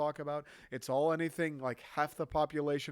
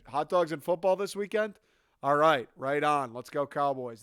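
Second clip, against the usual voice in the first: louder, hammed-up buddy cheer; mock hearty fan; 7 dB louder than usual. Spy blending in talking football, hammed-up cheer. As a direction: slap him on the back, all-American.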